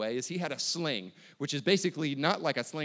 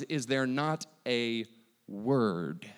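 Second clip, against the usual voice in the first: slowed and weighted, trailing low on word; slow emphatic reading; 3 semitones lower, much slower than usual. Shown as a demonstration. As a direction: draw it out and let it sink. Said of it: "that word cause literally means".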